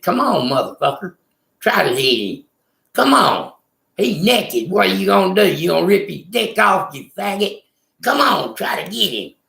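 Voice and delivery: egging the big kid on to fight, half-acted; taunting challenge. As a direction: friend daring the attacker, mock taunting. Friend taunting the attacker.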